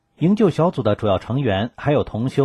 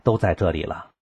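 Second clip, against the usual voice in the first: lower, evenly held calm over hurt; forced calm; 4 semitones lower than usual. Retold or imitated. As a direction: keep it level, swallowing the sting. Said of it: "尽量平静地说".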